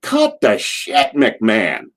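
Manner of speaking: high, drawn-out mock heckle; slow mock holler, falling on the name; imitated heckler yell. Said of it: "And some ass yelled".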